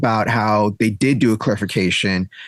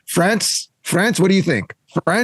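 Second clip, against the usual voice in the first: higher, imitating a referee calling on France; mock referee calling out; 5 semitones higher, slower than usual. Referee mocking France to the seminar, higher calling voice. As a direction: lightly mimic a referee asking France. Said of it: "he was calling out".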